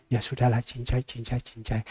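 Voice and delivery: quiet, dismissive retold agreement; imitated easygoing concession. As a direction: play a dealer waving the matter away. Dealer gives in, waves it off.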